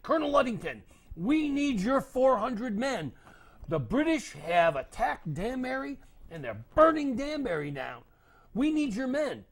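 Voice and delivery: high, loud urgent plea; urgent messenger. Acted. Messenger begging the colonel for men, high and loud. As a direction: beg the colonel for his men. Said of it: "and he said".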